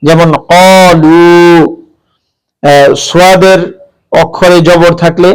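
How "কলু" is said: কলু said very slowly with a heavy ক; কলু, ক read heavy, not as কা; heavy qaf. Shown as a demonstration. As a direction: draw out কলু with a thick ক. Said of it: "কা উচ্চারণ করা যাবে না".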